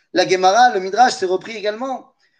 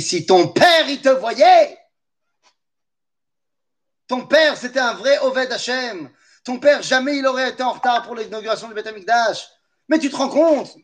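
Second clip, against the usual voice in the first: scolding Jewish mother; 5 semitones higher than usual. Retold or imitated. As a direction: lay the guilt on him like a mother. Mother scolding late son.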